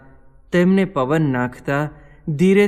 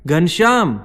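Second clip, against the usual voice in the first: high, loud call into the dark; loud shout; 5 semitones higher, 5 dB louder than usual. A narrator's reading. Rampratap groping in the dark, shouting loudly for Ghanshyam. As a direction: shout the name to find him. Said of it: "ફરી જોરથી બૂમ મારી".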